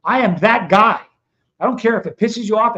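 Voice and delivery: loud, defiant declaration. Real, not acted. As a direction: plant your feet and declare it. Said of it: "a little pissed off".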